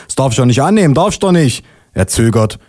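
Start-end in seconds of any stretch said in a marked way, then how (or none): 0.1-1.6 higher-pitched mild protest; acted official protest, pitched up; protesting policeman. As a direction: policeman refusing a bribe. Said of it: "ruft er".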